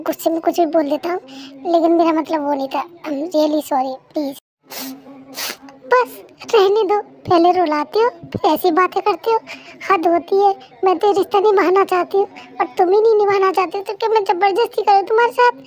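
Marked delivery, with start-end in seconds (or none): 5.9-15.6 tearful complaint. Acted. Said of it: "रो मत please".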